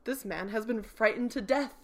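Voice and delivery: game master setting the scene; story narration. Acted. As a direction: read the spooky scene to the players.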